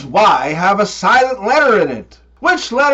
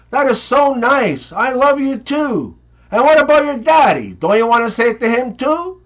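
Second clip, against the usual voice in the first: mommy voice; 4 semitones higher than usual. Acted.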